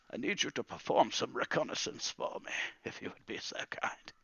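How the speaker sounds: put-on courteous old wizard handing out a mission; old wizard, politely requesting. Wizard asking Calamus to scout, politely requesting.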